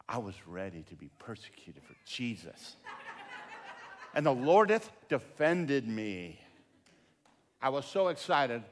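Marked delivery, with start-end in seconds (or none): 0.1-6.4 chuckling through a mock-solemn line; laughing triumph. Pastor after the man walks away, laughing relief. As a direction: let the relief spill out in laughter.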